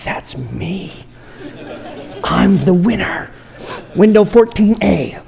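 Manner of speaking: laughing, playful winner's joy; mock delight. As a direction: act thrilled your number got called. Called number at the DMV.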